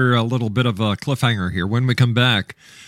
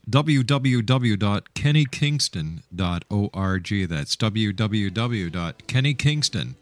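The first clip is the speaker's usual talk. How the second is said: slow announcer read; 2 semitones lower, much slower than usual. Acted. Host reads the website slowly.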